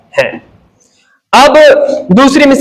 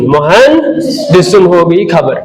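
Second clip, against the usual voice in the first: slow stressed explanation; 5 semitones lower, slower than usual. Shown as a demonstration. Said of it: "अना मुहंदिसुन".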